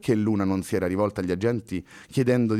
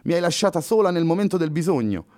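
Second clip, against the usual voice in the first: joking; 7 semitones higher, 3 dB louder than usual. Acted. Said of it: "scherzò puntandogli un dito".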